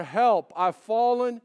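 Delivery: lightly voiced old lady calling out; understated imitation of the ad lady; Mrs Fletcher's cry. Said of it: "she's crying out in despair".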